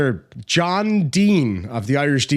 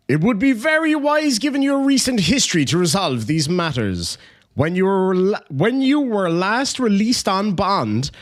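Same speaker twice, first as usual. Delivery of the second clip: mock pompous lawyer; 5 semitones higher than usual. Mock reading of lawyer email.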